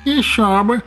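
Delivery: high, purring cat voice. A narrator's reading. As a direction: purr it smugly. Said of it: "промуркотел Аристарх".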